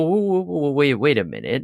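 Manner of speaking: high-pitched whoas settling back down; mock startled objection. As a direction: halt someone in playful alarm. Acts out readers objecting, startled.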